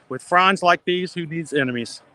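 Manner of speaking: cheesy punchline, hammed up; embarrassing dad joke. Real, not acted. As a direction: deliver the pun like a proud dad. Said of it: "that was a classic dad joke right there".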